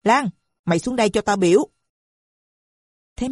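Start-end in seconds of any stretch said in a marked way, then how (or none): 0.0-1.7 fast, higher angry call; mother shrilly ordering her daughter downstairs; shrill summons. Acted. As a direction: order the girl down now. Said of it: "Tư Búp trù tréo".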